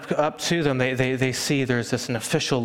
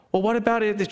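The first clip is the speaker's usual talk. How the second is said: curious question; 8 semitones higher than usual. Retold or imitated. Curious child asks.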